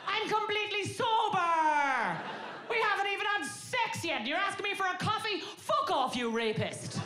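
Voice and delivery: very high-pitched shrieking outrage; outraged screaming. Acted. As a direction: shriek in hammed-up disbelief and fury. Acts outraged reply to coffee invitation.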